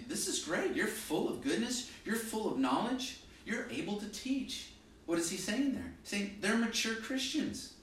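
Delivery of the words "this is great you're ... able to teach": higher-pitched, upbeat encouragement; encouraging. Retold or imitated. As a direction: voice Paul cheering them on, pitched up. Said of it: "gives them an incredible encouragement".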